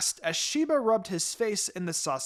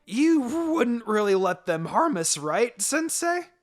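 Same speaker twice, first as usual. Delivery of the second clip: nervous chuckle; 4 semitones higher, 5 dB louder than usual. A narrator's reading. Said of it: "Naruto attempted the chuckle".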